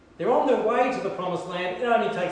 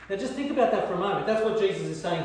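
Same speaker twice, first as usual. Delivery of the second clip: laughing; 2 semitones higher, faster than usual. Real, not acted. Preacher laughs at the thought.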